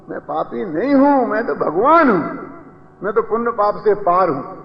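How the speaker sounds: firm, proud "मैं पापी नहीं हूं"; confident declaration. Shown as a demonstration. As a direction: assert your own divinity with conviction. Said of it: "ये कहते कहते जिंदगी निकल गई".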